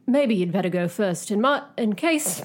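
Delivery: deliberately bad British accent; shaky stab at a British accent. Shown as a demonstration. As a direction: attempt a hammy British accent. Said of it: "I should be doing this in a British accent".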